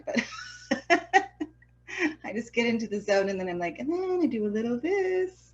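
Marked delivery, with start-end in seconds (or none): 3.8-5.5 soft, higher self-talk, imitated; mumbling to self. Painter showing how they get into the zone, mumbling to self. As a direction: imitate yourself murmuring away, absorbed in the task. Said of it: "I'll just kinda mumble to myself".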